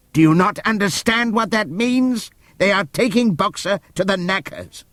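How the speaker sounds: put-on old donkey pleading with the herd; desperate donkey. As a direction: make them understand. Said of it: "Benjamin explains the van".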